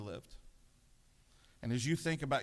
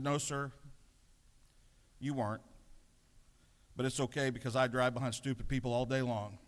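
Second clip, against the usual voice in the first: calm reply. Retold or imitated. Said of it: "very calmly".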